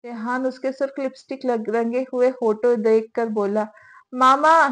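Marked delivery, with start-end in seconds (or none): 4.1-4.6 calling out loudly for mom, pitch rising at the end; a loud cry to summon mama. Acted. Shanze calls her mother-in-law for help, loud cry. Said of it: "जोर से चिल्लाई".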